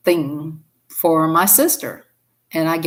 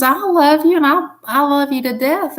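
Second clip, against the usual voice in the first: God's loving voice; 9 semitones higher, 4 dB louder than usual. Retold or imitated. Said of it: "He says".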